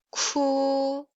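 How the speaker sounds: airy k then held vowel in "ku"; aspirated k. Shown as a demonstration. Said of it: "let's just read each sound".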